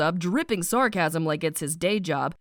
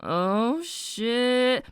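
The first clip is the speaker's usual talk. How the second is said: shocked gasp; 3 semitones higher than usual. Retold or imitated. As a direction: gasp in alarm. Caught by the guard.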